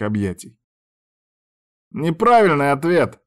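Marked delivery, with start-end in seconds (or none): 1.9-3.2 playful scolding. A narrator's reading. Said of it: "он сдавил меня ещё сильнее".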